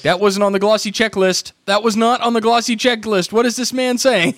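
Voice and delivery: high, loud, bewildered clerk; baffled salesman. Retold or imitated. Clerk confused by talk of Android, hammed-up bafflement. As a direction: play the clerk totally lost.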